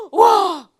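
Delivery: shouted high wow; loud exclamation. Real, not acted. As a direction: call it out loudly. Exclaims while laughing.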